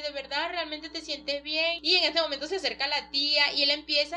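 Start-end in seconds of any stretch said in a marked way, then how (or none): 0.0-1.8 slow, mildly worried question; a touch of retold worry; worried father. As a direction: voice a concerned dad, drawn out. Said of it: "todo así como preocupado".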